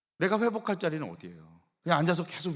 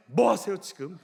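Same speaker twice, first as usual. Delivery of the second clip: louder, punchy rebuke from a full chest; 4 dB louder than usual. Shown as a demonstration. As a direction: breathe in and fire it out. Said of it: "코로 숨을 들이마신 다음에 가슴을 부풀린 다음에".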